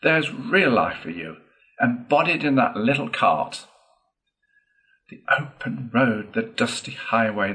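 lightly voiced enthusiast, lifting through the list; boastful Toad, exhilarated. Toad showing friends his caravan, excitedly boastful. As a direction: sell the open road with relish.

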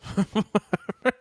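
bursting into high laughter. Real, not acted. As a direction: laugh at your own punchline. Laughs at own joke.

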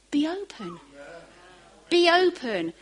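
Jesus calling heaven open, growing to a cry; rising command. Acted. Jesus's command, voiced by preacher.

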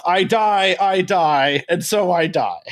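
hammed-up stage death; mock-tragic last words; overwrought pretend dying. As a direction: declaim a fake death, sinking as you go. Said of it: "overwrought acting death".

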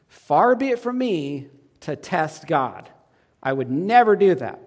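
mock pious. Ahaz refusing the sign, hammed-up pious voice. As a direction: put on false humility.

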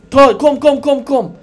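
luring call. Retold or imitated. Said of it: "De ropar".

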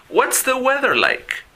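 high, slow, exaggerated model line; teacher modelling a phrase to repeat. Shown as a demonstration. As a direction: say it big and slow for the class to copy. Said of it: "repitan después de mí".

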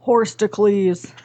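persona voice. Acted. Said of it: "I have too many personas".

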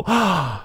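a sharp, high fake gasp; mock shocked gasp. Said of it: "and we go".

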